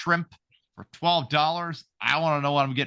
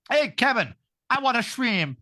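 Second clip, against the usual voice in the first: a slightly higher teasing wife voice; mock wife voice; 7 semitones higher than usual. Husband lightly mimicking his wife, a touch higher. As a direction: tease her shrimp request lightly.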